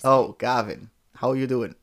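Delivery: put-on Welsh lilt; Welsh accent. Shown as a demonstration. Partner imitating Gavin and Stacey, Welsh accent. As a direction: greet Gavin in mock Welsh. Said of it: "Gavin and Stacey".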